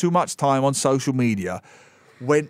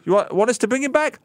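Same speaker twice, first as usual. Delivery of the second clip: mock disbelief; 12 semitones higher, faster than usual. Mock studio incredulous offer.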